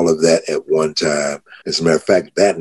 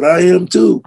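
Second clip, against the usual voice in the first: excited; 11 semitones higher than usual. Retold or imitated. Both realising they are sober.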